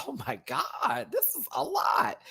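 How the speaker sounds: high, soft whisper; whispered aside. Retold or imitated. Retelling her reaction to the runway, whispered. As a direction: breathe it out, overwhelmed. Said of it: "I was like".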